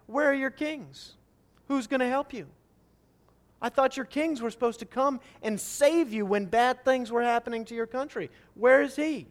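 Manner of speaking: trash talk. Acted. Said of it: "a little bit of a trash talk situation".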